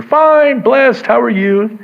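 high, loud, put-on pleasantness; canned cheerfulness. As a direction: fake a bright church answer. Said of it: "canned answer".

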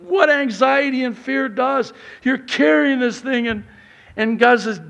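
ordinary delivery

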